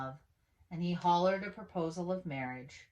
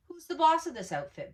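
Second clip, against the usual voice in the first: Bill's challenge; 10 semitones higher, 7 dB louder than usual. A narrator's reading. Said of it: "Bill asked".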